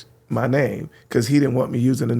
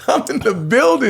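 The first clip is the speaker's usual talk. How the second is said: proud, raised announcement of arrival; triumphant; 8 semitones higher than usual. Retold or imitated. DJ proudly telling the host he made it, triumphant. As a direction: declare it like a victory.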